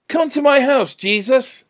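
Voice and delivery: high, loud shouted invitation; calling out. A narrator's reading. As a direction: call eagerly over a crowd. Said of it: "someone called out".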